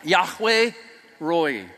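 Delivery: "Yahweh" with a rough throaty h, "Roi" dropped low; hairball throat sound. Shown as a demonstration. Teaching the congregation, a throaty "Yahweh Roi". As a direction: rasp the h in "Yahweh" from the back of the throat. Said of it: "pretend you have a hairball in your mouth".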